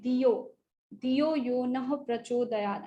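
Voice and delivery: "Diyo" with plain d, no aspiration; wrong Diyo. Shown as a demonstration. Teacher showing the common error, plain d in "Diyo". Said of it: "some say".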